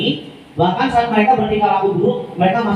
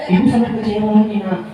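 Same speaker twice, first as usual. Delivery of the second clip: soft guilt-tripping. Shown as a demonstration. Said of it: "Jadi dia nadanya lembut".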